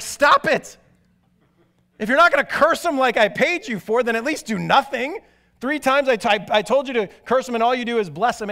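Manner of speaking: an angry king who paid for a curse scolding his hireling; exasperated king. Retold or imitated. Frustrated king scolds the sorcerer.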